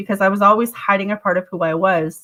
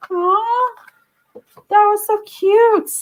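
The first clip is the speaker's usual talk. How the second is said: gushing aw; 11 semitones higher, much slower than usual. Real, not acted. Reader gushes over a sweet message.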